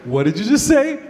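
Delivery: loud, high, stunned demand; disbelieving shout. Retold or imitated. Comic asks the drinking buddy, shouting in disbelief. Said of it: "I had to ask him".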